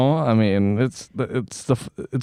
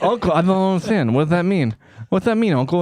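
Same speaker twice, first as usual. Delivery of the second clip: higher-pitched mock nephew; lightly voiced confused nephew; 4 semitones higher, faster than usual. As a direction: play a puzzled nephew, pitched up. Acts out confused nephew questioning uncle.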